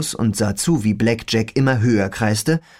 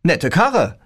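whispery telepathic voice; 6 semitones higher than usual. Acted. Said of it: "sagte eine Stimme in meinem Kopf".

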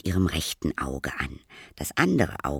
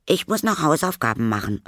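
high, raised schoolboy call; boy calling out; 8 semitones higher, 5 dB louder, faster than usual. Acted. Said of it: "rief er". (hoher, lauter Jungenruf)

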